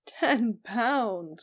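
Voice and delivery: half laughing, half dismayed exclamation; cried out. A narrator's reading. Uncle reacts to Phil's plan, mildly startled outcry. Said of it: "cried my uncle, almost between laughing and crying".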